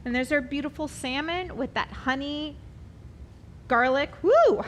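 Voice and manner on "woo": excited woo. Real, not acted. Excited cooking show exclamation.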